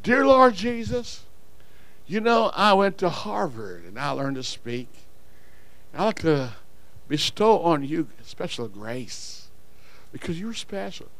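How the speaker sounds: a hint of snooty preacher, slow and hushed; mock pompous prayer. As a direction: parody a showy Harvard prayer. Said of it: "maybe I bring words".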